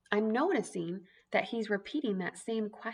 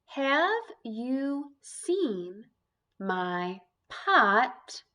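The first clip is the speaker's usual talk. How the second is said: slow trial reading; 3 dB louder, much slower than usual. Shown as a demonstration. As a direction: Have you seen stretched very slowly. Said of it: "Let's try it in our title".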